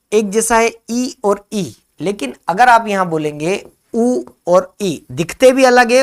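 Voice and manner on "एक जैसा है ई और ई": ई and ई said slowly and loud, higher; vowel demo. Shown as a demonstration. Teacher shows students the same vowel twice, slow and raised. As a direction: stretch each ई so the class hears they match. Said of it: "ये देखिए, इसका उच्चारण".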